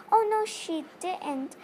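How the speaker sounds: put-on high, slow piping child's voice. A narrator's reading. Nigel defending his teacher in a high pipe. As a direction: pipe up like a small boy. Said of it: "piped Nigel".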